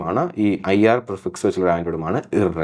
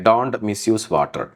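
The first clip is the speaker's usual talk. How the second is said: slow dictation; 2 semitones lower, much slower than usual. Shown as a demonstration. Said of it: "slow example read".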